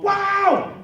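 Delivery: high, loud startled wow; sudden shocked yelp; surprised wow. Retold or imitated. Surprised exclaim while grabbed.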